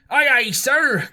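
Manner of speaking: loud, high, slow hail; cried out. A narrator's reading. Silver answering the squire from the passage, loud hail. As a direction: sing it out from the passage. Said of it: "cried the cook in the passage".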